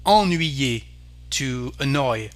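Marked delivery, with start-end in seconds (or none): 0.1-0.8 ennuyer with a nasal "on" opening; French pronunciation. Shown as a demonstration. Teacher modelling French for learners, French pronunciation. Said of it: "so the sound is".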